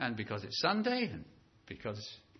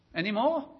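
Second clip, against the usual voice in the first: greedy beggar; 8 semitones higher, 7 dB louder than usual. Retold or imitated. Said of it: "and says".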